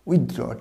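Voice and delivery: উইথড্র with the "th" kept; corrected উইথড্র. Shown as a demonstration. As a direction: repeat উইথড্র as "with-draw". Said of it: "টিএইচটা হবে".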